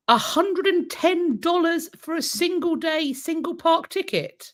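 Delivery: incredulous. Real, not acted. Balking at the price of a park ticket, incredulous. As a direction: spell out the outrageous price slowly, in disbelief.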